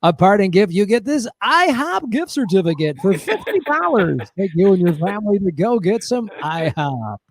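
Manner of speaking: put-on announcer prize read; lightly hammed-up host pitch; game show voice guy. Host pitching the gift certificate, game show voice. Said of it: "if the game show voice guy was like".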